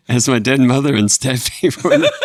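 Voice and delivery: New York stand-up voice with laughs; a hint of New York accent, breaking into laughter; Jerry Seinfeld impression. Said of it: "in the voice of Jerry Seinfeld".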